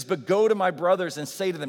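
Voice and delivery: loud preacher's quote of the command; proclaiming the command. Acted. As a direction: announce it like a herald. Quoting Jesus's commission aloud.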